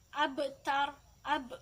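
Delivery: "Abtar" with a small bounce after the b; memantul. Shown as a demonstration. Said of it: "harus dibaca memantul". ("Abtar" dengan ba dipantulkan)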